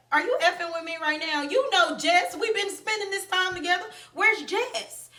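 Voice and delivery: high-pitched, indignant demand; mock-hysterical confrontation, quick in bursts; imitated hysteria. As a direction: mimic a friend getting frantic, pitch climbing. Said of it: "And she's hysterical".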